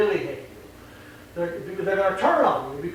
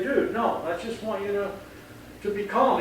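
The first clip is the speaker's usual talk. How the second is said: calm dude; 4 dB quieter than usual. Shown as a demonstration. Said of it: "take initiative to say".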